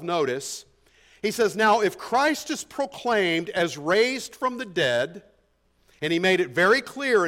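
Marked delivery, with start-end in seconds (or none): 1.5-5.2 slow, deliberate reading of "Now if Christ is proclaimed as raised from the dead"; slow scripture reading. Shown as a demonstration. Pastor slowly reads the verse to his congregation, deliberate. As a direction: read it slowly, weighing each word. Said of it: "He says in verse twelve".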